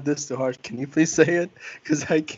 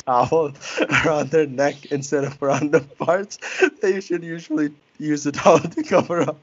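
laughing while reading. Real, not acted. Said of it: "I can't do it with a straight face".

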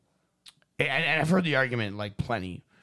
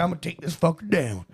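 determined Southern hero; lightly put-on Southern voice; Southern accent. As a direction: vow it in a mock Southern accent. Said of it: "but he's Southern".

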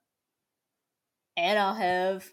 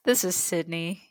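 flight attendant; 3 semitones lower than usual. Acted. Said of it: "Are you a flight attendant?".

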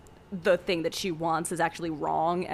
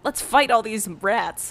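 Pepe voice; 3 semitones higher, 6 dB louder, slower than usual. Retold or imitated. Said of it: "And Pepe is like".

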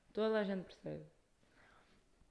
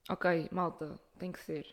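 mock announcement; 3 semitones lower, slower than usual. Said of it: "que eu digo".

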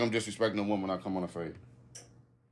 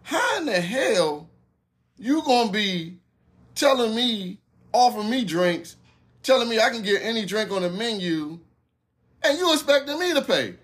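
confused; 8 semitones higher than usual. Retold or imitated. Man questioning who pays after her offer, retold confused disbelief. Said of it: "I'm confused 'cause I'm like".

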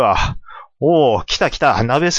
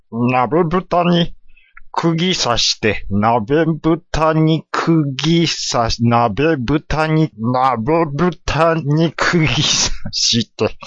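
slow explaining; much slower than usual. Acted. Apprentice slowly explains his plan.

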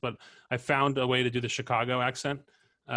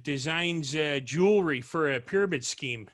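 Chicago accent. Shown as a demonstration. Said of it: "Chicago accent".

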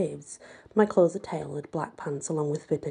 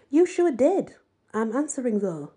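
a defiant comeback, pitched up; defiant retort; 6 semitones higher, 4 dB louder than usual. A narrator's reading. Ella defying Madame to her face, defiant. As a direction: snap it back at her.

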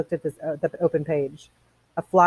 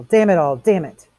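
louder, exasperated swearing; angry cursing; 7 dB louder than usual. Acted. Montag fed up with the women, cursing angrily. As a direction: curse in mounting exasperation. Montag's outburst after bringing books.

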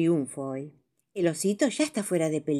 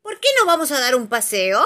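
soothing invitation; 6 semitones higher, 7 dB louder than usual. Acted. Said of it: "para tranquilizar al conejo".

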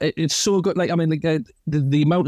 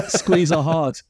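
laughing; 3 semitones higher, much slower than usual. Pretend. Mocking 911 operator.

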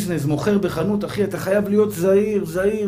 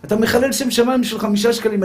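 mock outraged yell; 4 semitones higher than usual. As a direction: imitate a religious man shouting at the haggler in a shop. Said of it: "התחיל לצעוק עליו". (צעקה מחוקה ומוגבהת, לא חזקה)

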